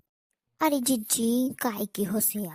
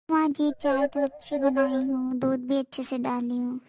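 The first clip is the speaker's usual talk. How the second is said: louder, a half-deaf daughter-in-law talking over herself; cheerful loud bahu answering the wrong question; loud reply; 4 dB louder than usual. Acted. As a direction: answer loudly, sure you got it right. Hard-of-hearing bahu answers loudly.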